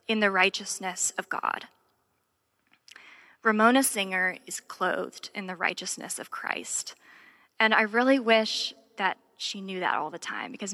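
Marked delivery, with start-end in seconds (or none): 3.4-6.9 hushed, breathy whisper of the verse. Acted. Pastor whispers the verse over Ramona Singer, whispered. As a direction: whisper it like a secret truth.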